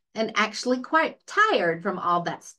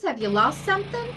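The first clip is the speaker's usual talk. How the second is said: friendly farmer; 8 semitones higher, faster than usual. A narrator's reading. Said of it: "said a friendly voice".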